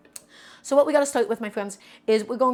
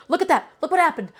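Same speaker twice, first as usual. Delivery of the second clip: higher, louder excited pointing-out; excited look; 6 semitones higher, 5 dB louder than usual. Real, not acted. Chef showing viewers the slipping knife, excitedly raised voice. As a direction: grab the viewers' attention, a bit amazed.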